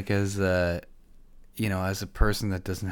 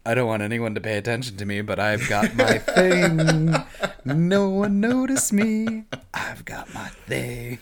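mocking attention seeker; 5 semitones higher than usual. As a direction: sneer at the guy who needs a thing. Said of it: "there's always that guy".

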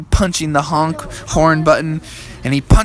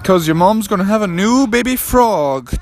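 slightly raised, lightly urgent father; urgent dad; 5 semitones higher than usual. Acted. Dad hurries Froggy to the car, mildly urgent. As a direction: call the child to get moving.

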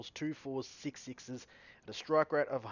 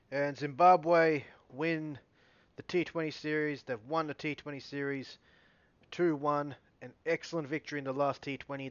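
excited announcement; 2 semitones higher, 6 dB louder than usual. Real, not acted. Announcing the series winner.

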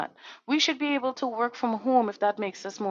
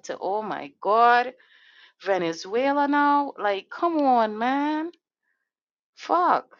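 rising into a loud, higher, furious outburst; real anger; 4 semitones higher, 6 dB louder, slower than usual. Real, not acted. Venting to her listeners about the wars, rising to an angry shout. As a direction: let the frustration boil over and explode on the curse. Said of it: "if y'all think I'm angry. I am. I'm mad".

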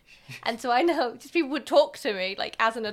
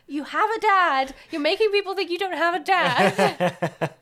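higher, louder, slow mortified mother; embarrassed mum; 8 semitones higher, 7 dB louder, slower than usual. Retold or imitated. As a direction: scold the child through laughter. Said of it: "she would always get really embarrassed".

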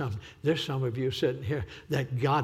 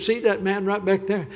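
retold girl's plea; 4 semitones higher, 6 dB louder than usual. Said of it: "she looked up at me and said".

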